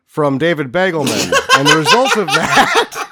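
losing it while trying to read on; breaking up laughing. Real, not acted. Podcast host reading Kirk Douglas's quote, cracking up. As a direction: laugh helplessly through the words.

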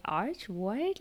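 imitating a baffled listener, pitch lifting; mildly confused echo; puzzled questioning. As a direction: query the name as if you didn't get it. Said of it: "people sometimes don't get that either".

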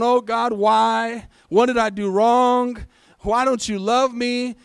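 loud, drawn-out mock lament; whining complaint. Preacher mimicking a believer stuck in the valley, whining. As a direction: whine it out like a wronged believer. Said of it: "whining and complaining and going".

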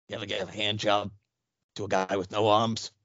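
low, hushed proposition; shady and under the breath; creepy candy seller. Acted. Creep making an offer for candy, low sly voice. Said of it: "This is Count Creepyhead candy bar".

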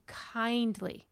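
"kindly" slowed and drawn out for emphasis; stress on kindly. Real, not acted. Host asking how to redirect someone, stress on "kindly". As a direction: lean gently on "kindly", stretching it. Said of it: "I'm stressing the word kindly".

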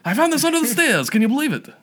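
put-on high old woman voice with a Yiddish lilt; a grandma showing off a find; old Jewish woman voice. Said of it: "old people voices".

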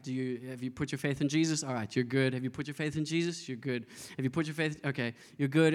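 low, routine gatekeeper voice; lightly voiced official checking people through; admissions guy. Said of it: "like an admissions guy".

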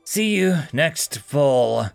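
slow, through gritted teeth. Acted. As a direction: grit teeth, speak slowly. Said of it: "said through gritted teeth".

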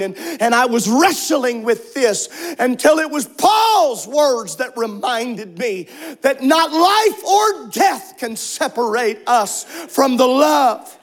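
impassioned preaching. Acted. Preacher rising to full force.

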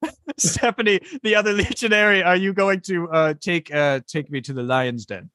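high, fast scared plea; nervous, high pleading. Acted. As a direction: beg for your life, high-pitched. Guard pleads with the legionary.

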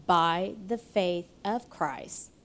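"by the faith of Christ" slow and weighted; emphasized words. Real, not acted. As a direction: stretch out "by the faith of Christ" with deliberate stress. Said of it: "I emphasize the words".

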